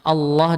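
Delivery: "Allah" starting on a rounded "o". Shown as a demonstration. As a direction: say "Allah" as "Olloh". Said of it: "bacanya Allah dengan O".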